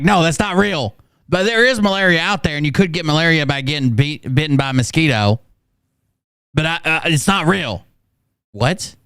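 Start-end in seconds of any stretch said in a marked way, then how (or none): 0.0-7.8 high, sneering parody of the host, pitched up; mocking imitation of Phil. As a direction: pitch it up and mock his double-talk. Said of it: "So he's like".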